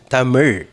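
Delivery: TAMIL slowly, final L as curled zh. Shown as a demonstration. Teacher asking students to practice, slow TAMIL with curled ending. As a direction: draw out TAMIL, tongue curled to the palate. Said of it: "try to say or practice".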